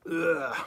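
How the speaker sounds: weary "ugh" of frustration; fed-up groan; exasperated groan. Real, not acted. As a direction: groan at the mess falling around you. Fed up with falling clutter.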